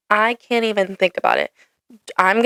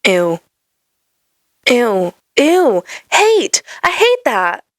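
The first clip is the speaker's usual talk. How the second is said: disgusted; 3 semitones higher, 4 dB louder, slower than usual. Real, not acted. Disgust at watery ketchup.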